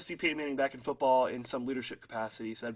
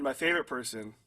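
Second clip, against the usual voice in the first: sarcastic; 2 semitones lower than usual. Acted. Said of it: "I'm being sarcastic".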